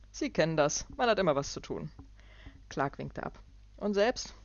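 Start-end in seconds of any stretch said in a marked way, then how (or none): 0.1-1.9 loud, breezy brush-off; hearty businessman. Acted. Clark's voice. 3.8-4.3 loud, higher quick question; jovial businessman. Acted. Clark's voice.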